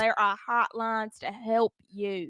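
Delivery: put-on slow, drawn-out country accent; unhurried country twang. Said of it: "We say it in a country accent".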